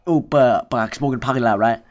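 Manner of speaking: mock pleading smoker; lady pushing back. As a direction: imitate her wheedling. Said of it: "She like".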